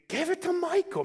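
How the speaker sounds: high-pitched imitation of yelping grandma; mock holler. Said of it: "who yelped and hollered so loud".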